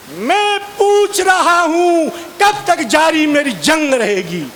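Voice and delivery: a hammed-up veer ras stage recital; heroic verse recitation. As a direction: recite like a fiery patriotic poet. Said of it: "वीर रस की कविता".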